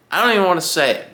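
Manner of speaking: quick high-pitched burst of alarm. Real, not acted. Cyclist on a ride, superstitious about flats, blurting it out fast and high.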